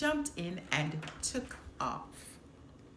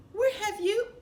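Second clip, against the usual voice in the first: much higher, louder angry outburst; angry demand; 12 semitones higher, 7 dB louder than usual. Acted. Nick confronting Finnick for disappearing, angry outburst. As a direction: snap at him for vanishing.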